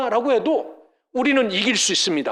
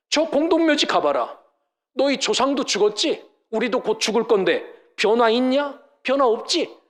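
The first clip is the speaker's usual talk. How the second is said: sneering taunt; 2 semitones higher than usual. Retold or imitated. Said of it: "조롱한다는".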